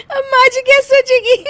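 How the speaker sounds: high, laughing despair; laughing worry. Acted. Daughter-in-law alone, worried but laughing high. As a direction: fret while giggling.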